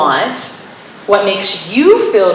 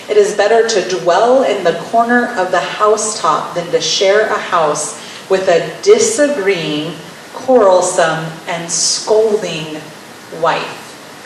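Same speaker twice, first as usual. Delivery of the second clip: scripture reading. Acted.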